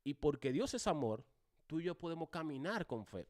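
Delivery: "Dios es amor" loud, then a pause; emphatic preaching. Shown as a demonstration. Teacher models preaching to students, emphatic "Dios es amor". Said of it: "Miren lo que yo hago".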